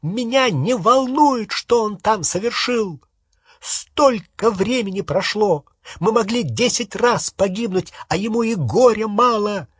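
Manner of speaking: shrill furious rant. Acted. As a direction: keep yelling in outrage. Hermione keeps yelling at Ron.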